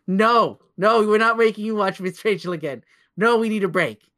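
half-joking plea for a break; mock exasperated refusal. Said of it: "we'll be like".

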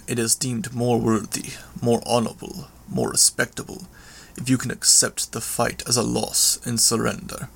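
lightly voiced villain, halting and restrained; a hint of a proud brute, phrase by phrase; understated menace; menacing villain monologue.

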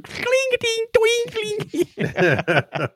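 high plinking harpsichord noises; mock clumsy harpsichord; imitated harpsichord clanging. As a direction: plink out bad keyboard notes by voice. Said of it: "you could clearly hear someone was".

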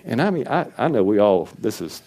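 ordinary delivery

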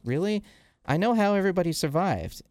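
retold taunt, pitched well up; mock-questioning and high, then knowing. Sinister reveals his secret to Magneto, knowing taunt.

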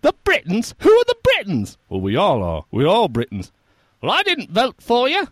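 very high, loud peasant rant. Retold or imitated. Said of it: "thank you for that performance".

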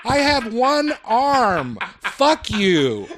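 laughing through a mock outburst; kid's indignant rant, half laughing. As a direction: spit it out while cracking up. Voicing the kid, laughing.

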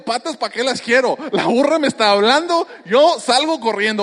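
playful fright at a talking donkey, laughing; laughing panic. Retold or imitated. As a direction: laugh as you imagine running off. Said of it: "pero yo digo".

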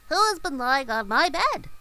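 high, loud dwarf outcry; dwarf crying out. A narrator's reading. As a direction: call it out in alarm, high and loud. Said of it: "and cried".

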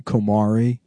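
comari said slowly, Italian style. Shown as a demonstration. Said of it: "The Italian word is".

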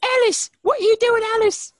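high, loud put-on British voice; mock British. Imitating the show's detective to friends, loud mock British. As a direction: call out to Alice like a TV detective.

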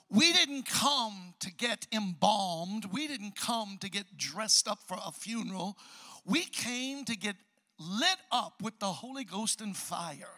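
slow, emphatic preaching cadence. Acted. Pastor urges the congregation, slow emphatic preaching. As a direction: drive each line home slowly to the church. Preaching build before prayer.

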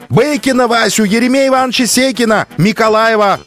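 shouting out names. A narrator's reading. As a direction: call the names over the din. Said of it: "галдеть и выкрикивать имена".

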